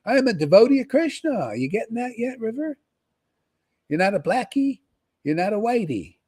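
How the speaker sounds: high, loud, rising burst of realization; mock awakening. Voicing River's awakening to her follower, in a high, loud burst. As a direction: cry it out as a sudden revelation. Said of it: "and you're like".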